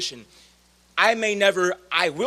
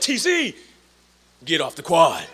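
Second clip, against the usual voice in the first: imitated yelling; 6 dB louder than usual. Josh overruling the trustee, mock yell dropping in pitch. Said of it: "him yelling at me".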